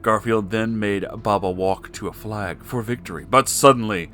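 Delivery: usual speaking voice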